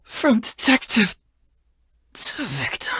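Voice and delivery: collapsing and whispering the last words; fading into a whisper. Acted. Defeated, collapsing.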